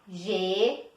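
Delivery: "Geladeira" in five long beats, GE, LA, DE, I, RA; five widely spaced syllables in "Geladeira". Shown as a demonstration. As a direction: say "Geladeira" with pauses between all syllables. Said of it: "Eu abri cinco vezes".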